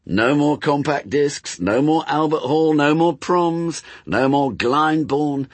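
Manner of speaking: high, slow, insistent list; taunting persuasion. Acted. Demon works on angel's weak spot, taunting. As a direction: hammer each loss, held high and drawn out.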